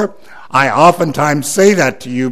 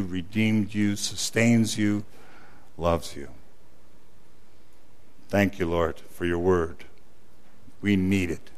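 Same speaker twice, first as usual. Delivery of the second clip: softer, lower sincere close; soft closing; 6 semitones lower, 10 dB quieter than usual. Acted. Pastor closing his sermon to the church, soft and sincere. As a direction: bring it down gently.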